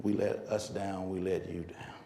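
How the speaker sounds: low, soft, halting confession; subdued apology. Retold or imitated. Runners apologising to coach after crying, subdued low plea. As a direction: own up quietly, pausing between phrases. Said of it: "They cried".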